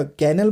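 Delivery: "कैनल" with a full first vowel; incorrect pronunciation. Shown as a demonstration. Teacher citing learners' mistake, "कैनल" stressed at the front. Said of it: "तो ये incorrect हो गया".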